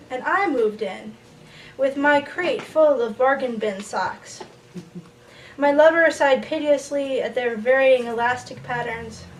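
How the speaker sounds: measured poem recital with lifted phrase starts; falling cadence at each line's end; poetry reading. Acted. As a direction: read it to the room as a poem, line by line. Reads a poem to audience.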